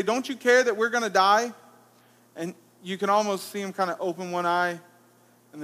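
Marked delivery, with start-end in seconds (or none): 0.0-1.5 lightly mock-panicked, higher plea; panicked disciples. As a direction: play the frightened disciples half-joking. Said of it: "they look at Jesus and say".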